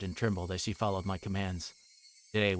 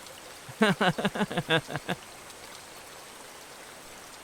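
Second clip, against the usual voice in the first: long airy high-pitched giggling; a long creepy breathy giggle; breathy eerie giggle; 9 semitones higher than usual. Acted. Reina giggling as she follows Keiichi, breathy giggle.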